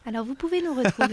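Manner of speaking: soft, quick air hostess voice; flight attendant. Acted. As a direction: announce it like cabin crew. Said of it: "Avec la petite voix d'hôtesse".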